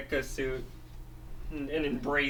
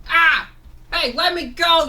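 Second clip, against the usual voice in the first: very high, loud panicked cry; panicked squawk; 12 semitones higher, 9 dB louder than usual. Acted. Seagull grabbed by the monster, panicked cry. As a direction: struggle to break free.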